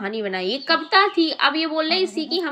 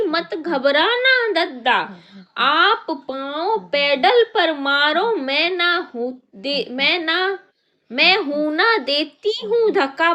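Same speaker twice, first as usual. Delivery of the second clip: slow, a touch of plucky little ant; ant reassuring; 3 semitones higher, slower than usual. Acted. Ant promising the elephant a push, lightly voiced. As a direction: brave little ant cheering him on. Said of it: "बोली".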